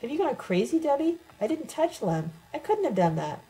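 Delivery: high-pitched, distressed protest; mild acted sobbing. A narrator's reading. Narrator denies hurting Lem to Debbie, lightly acted sobbing. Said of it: "I started sobbing".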